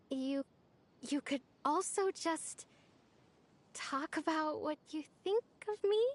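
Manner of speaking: hesitant invitation with halting pauses; tentative, broken up by little pauses; shy, tentative. Acted. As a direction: feel your way gently into an awkward request. Shy invitation to share feelings.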